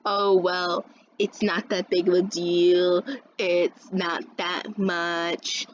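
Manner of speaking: mocking, slow, drawn-out mild telling-off; small little talk. Teacher going easy on the other girl, slow mimicked talk. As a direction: drag the words out as a lenient teacher would. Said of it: "this fucking small little fucking talk".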